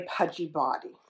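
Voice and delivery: plain reading voice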